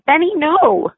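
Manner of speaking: put-on high, tearful child's wail; bursting into tears. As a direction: voice a little girl breaking into tears. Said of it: "bursting suddenly into tears".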